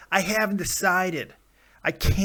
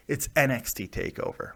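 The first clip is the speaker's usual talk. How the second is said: sexy; 3 semitones lower, 4 dB quieter than usual. Real, not acted. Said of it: "Oh, I said that sexy".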